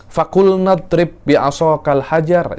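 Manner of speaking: slow, high-pitched order; commanding recitation. Shown as a demonstration. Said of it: "Itu kan suruhan, kan? Allah menyuruh".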